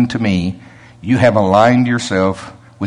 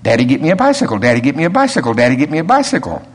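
put-on rote, mechanical child's plea on repeat; vain repetition; much faster than usual. Shown as a demonstration. Preacher demos vain repetition as a child's mechanical nagging. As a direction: rattle it off like a lightly voiced kid. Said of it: "you know what's a vain repetition".

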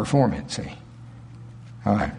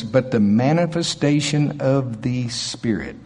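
"manifestation" given weight, slowly; slow the verse down and lean on "manifestation"; emphatic scripture reading; 2 semitones lower than usual. Shown as a demonstration. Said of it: "put some emphasis on certain words".

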